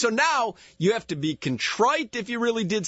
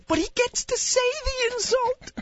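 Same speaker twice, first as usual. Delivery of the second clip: nature documentary; 11 semitones higher than usual. Pretend. Mock wildlife narration of cohost.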